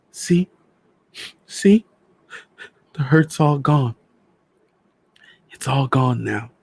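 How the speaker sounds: high-pitched, tender comforting; wife's high, fragile reassurance; soothing a loved one. A narrator's reading. Wife soothing her dead husband.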